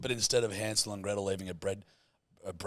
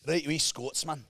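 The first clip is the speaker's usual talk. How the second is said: put-on Scottish accent; 4 semitones higher than usual. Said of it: "going back to German a bit".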